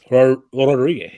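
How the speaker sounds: exaggerated Spanish accent, rolled and loud; hammed-up Spanish pronunciation of the name; overdone accent. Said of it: "I was just overdoing the accent".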